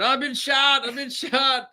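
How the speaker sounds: high, whiny I've been shot; mock panicked cry. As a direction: ham up a man who thinks he is shot. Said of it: "laying there saying".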